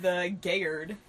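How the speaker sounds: "Gayard" said as two syllables, gay-ard; mock misreading. Shown as a demonstration. Reader sounding out the misspelled guard as "Gayard". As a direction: sound out "Gayard" like it's spelled. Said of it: "Gard is not spelled right".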